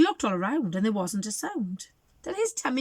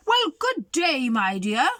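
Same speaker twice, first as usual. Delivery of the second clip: mock growl; 3 semitones higher, 5 dB louder, slower than usual. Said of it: "growled the wolf".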